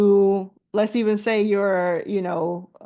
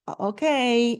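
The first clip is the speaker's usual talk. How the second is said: begrudging; 2 semitones higher, slower than usual. Retold or imitated. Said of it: "like, begrudgingly".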